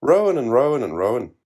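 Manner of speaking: "Rowan and Rowan and Rowan" high and loud, D's dropped. A narrator's reading. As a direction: spin the slogan "Rowan and Rowan and Rowan". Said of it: "dropping the D's and getting more of a spin".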